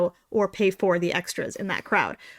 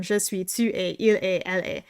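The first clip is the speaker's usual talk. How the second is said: flat classroom French recital; rote school French. Shown as a demonstration. Reciting school French phrases by rote, mildly mocking. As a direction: rattle off the drilled French phrases. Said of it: "You learn how to regurgitate".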